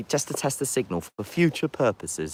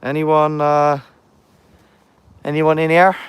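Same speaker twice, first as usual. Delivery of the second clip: calling out; 5 semitones higher, 7 dB louder than usual. Real, not acted. Calling out in the castle.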